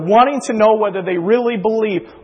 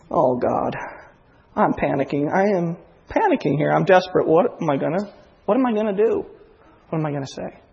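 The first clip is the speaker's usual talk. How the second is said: panicked prayer; 3 semitones lower, 4 dB quieter than usual. Retold or imitated. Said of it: "I'm thinking".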